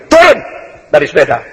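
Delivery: sharp order on Turun, then the rest drops back; commanding shout. Retold or imitated. Young teacher ordering forty gang members off their bikes, commanding shout. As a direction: bark the first word at the gang.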